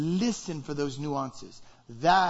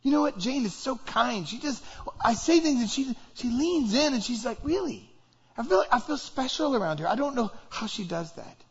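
1 admiring friend; 6 semitones higher than usual. Acted. Friend raving about Jane.

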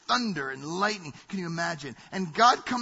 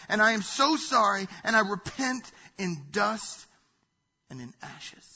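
cowering, ashamed Job; 4 semitones higher, 4 dB louder than usual. Acted. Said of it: "as if literally he's about to die".

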